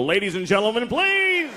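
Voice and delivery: high exasperated plea on please; a father scolding his son like a host hushing a crowd; announcer scolding. Pretend. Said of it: "I get to go".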